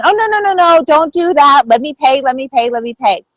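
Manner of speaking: high, fussy insistent protest; mock-insistent let me pay; polite refusal. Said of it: "Normally I would have gone".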